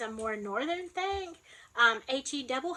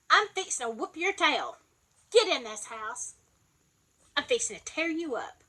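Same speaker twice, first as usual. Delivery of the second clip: mock mad mama. Shown as a demonstration. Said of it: "if we're really mad".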